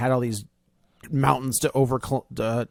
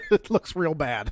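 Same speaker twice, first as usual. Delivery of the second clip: laughing; 3 semitones higher than usual. Real, not acted.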